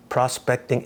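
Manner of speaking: Prospecting drawn out slowly for emphasis; stress on Prospecting. Shown as a demonstration. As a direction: lean on the word Prospecting, taking it slowly. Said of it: "I just wanna emphasize on the word prospecting".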